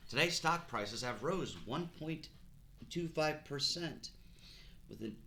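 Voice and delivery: brisk market news read; rapid market news. Pretend. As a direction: read the stock report like an anchor. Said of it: "This is Disney News".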